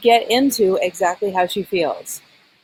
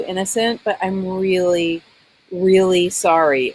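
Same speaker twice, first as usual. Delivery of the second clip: sincere apology. Acted. Acting the daughter's sincere apology.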